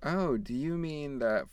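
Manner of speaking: high, slow kindly lady voice; a sugary mock church lady; sweet church lady. Church woman gently answering a shy boy, high and sweet. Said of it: "she said something else nice".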